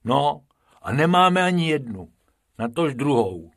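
mild lament. Acted. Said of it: "posteskl si Bob".

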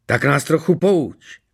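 high, slow, needling queen; goading. A narrator's reading. Queen inviting the princess to enlighten them, goading. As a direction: needle her, drawing the words out. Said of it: "popichovala Ksenii falešná královna".

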